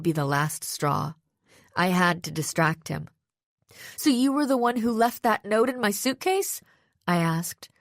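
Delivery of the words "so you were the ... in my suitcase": voice near shaking. A narrator's reading. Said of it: "trying to keep my voice from shaking".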